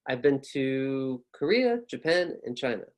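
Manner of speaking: "Korea" drawn out, "Japan" up, "China" down; list intonation. Shown as a demonstration. Teacher modelling commas, up-up-down intonation. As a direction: step up on "Japan", drop on "China". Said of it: "And commas".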